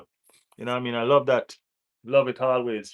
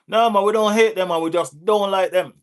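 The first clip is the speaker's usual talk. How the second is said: emphatic; 6 semitones higher, 5 dB louder than usual. Real, not acted. Exclaiming loud repeat of line.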